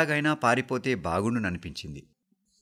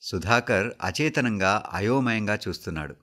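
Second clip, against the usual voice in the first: ordinary delivery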